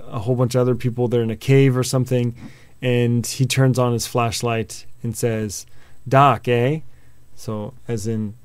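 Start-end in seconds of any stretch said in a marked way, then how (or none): 6.1-6.8 badly faked Australian accent. Scott turning on his flashlight in the cave, bad Australian accent. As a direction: put on a clumsy Aussie accent. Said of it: "with a really bad Australian accent".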